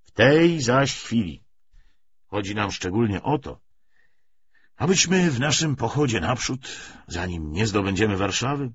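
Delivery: measured lecture with emphatic surges; lightly voiced party orator. Commissar justifies the treaty to comrades, mildly oratorical. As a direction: argue the policy point by point.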